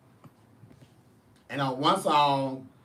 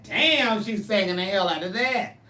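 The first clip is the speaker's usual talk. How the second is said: amazed exclaim; 4 semitones higher, 4 dB louder than usual. Retold or imitated. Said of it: "And I said".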